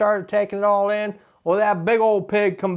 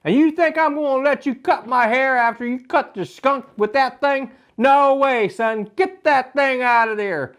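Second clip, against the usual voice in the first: indignant dad; 4 semitones higher than usual. Retold or imitated. Dad refusing, voiced in story.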